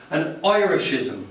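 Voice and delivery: "Irishism" begun with an "oi" sound; first syllable of "Irishism" like "oi"; oi pronunciation. Shown as a demonstration. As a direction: say "Irishism" as "Oi-rishism". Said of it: "is pronounced "oi".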